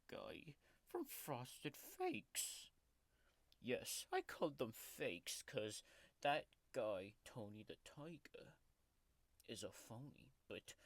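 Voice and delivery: grumpy tiger mascot growling through a fake ASMR video; sulky tiger taking over the channel; tiger character voice. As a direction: play a cranky cartoon tiger throughout. Tiger character Oscar hosts the video.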